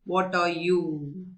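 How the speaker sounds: slow, mildly gruff challenge; lightly acted rude elephant; rough, rude voice. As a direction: draw out a brusque question. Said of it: "answered in a very rough, rude voice".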